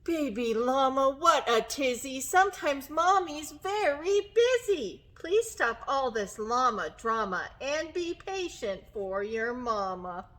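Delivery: lightly acted exasperated mother, stressed words; mildly scolding mama. Mama llama tells baby to be patient, mild scolding. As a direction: scold gently, easing down at the end.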